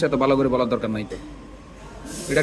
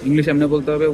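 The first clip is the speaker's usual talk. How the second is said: a louder, preachy jab mimicking English tutors; mock teacher quote; 4 dB louder than usual. Mocking English tutors who insist on one way, louder. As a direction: parrot the tutors' rule with scorn. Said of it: "কে বেটা English এমনি করে কইতে হইছে".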